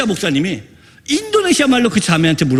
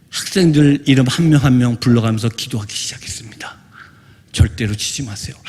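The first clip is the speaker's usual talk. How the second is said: solemn encouragement; 7 semitones lower than usual. Retold or imitated. Deacon's message tells missionary not to lose, solemn encouragement. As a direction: read it out gravely, with pauses between phrases.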